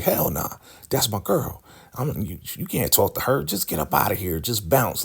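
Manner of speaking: high-pitched, dismissive mock attitude; nasty. Lacey refusing River a talk with her girl, nasty. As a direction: shoo them off with imitated sass, starting high. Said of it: "Lacey's being real nasty to River".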